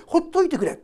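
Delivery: mock defiant demon snapping ほっといてくれ; demon's leave me alone. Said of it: "ほっといてくれって意味なんですよ".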